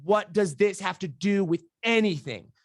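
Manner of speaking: slow, high, incredulous retort; baffled. Retold or imitated. Client questioning his coach's question, baffled. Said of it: "it doesn't even compute in my mind".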